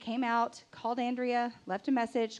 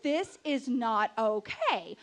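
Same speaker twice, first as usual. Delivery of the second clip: retold indignation; much slower than usual. Working myself into a lather.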